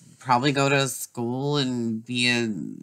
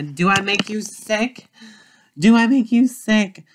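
builds from a sharp high question to a full, much louder shout; angry shout; 9 semitones higher, 6 dB louder than usual. Acted. Drunk mother turning on her daughter, rising to a shout. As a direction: throw the accusation back at her, getting louder.

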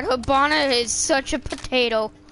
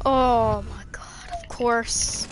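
whispering; 3 semitones lower, slower than usual. Real, not acted. Frustrated aside during game.

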